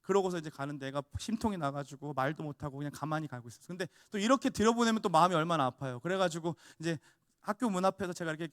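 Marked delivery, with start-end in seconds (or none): none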